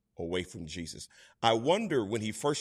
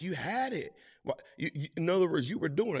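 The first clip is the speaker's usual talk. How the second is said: put-on higher, urgent coaxing of a child; encouraging parent; 7 semitones higher, faster than usual. Parent to child who fell off the bike, high and coaxing. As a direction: cheer the fallen kid on. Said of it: "the first thing you say is like".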